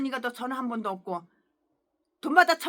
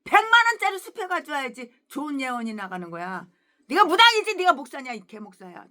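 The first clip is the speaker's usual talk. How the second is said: loud scornful yell at the start; mock angry yell; 7 dB louder than usual. Greedy pastor scolding a believer over small cash, mock angry. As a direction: scold him for a small offering. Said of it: "돈 봉투에서 돈을 쏙 꺼내가지고".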